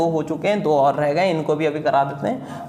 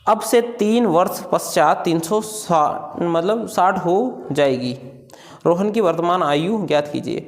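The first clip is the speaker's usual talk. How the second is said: slow dictation. Shown as a demonstration. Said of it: "पढ़ के दिखा".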